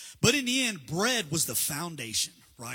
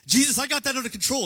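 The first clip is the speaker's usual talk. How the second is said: louder, higher, waving it off; insistent mock protest; 6 semitones higher, 7 dB louder than usual. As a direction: brush him off with a loud, cocky insist. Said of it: "And he's like".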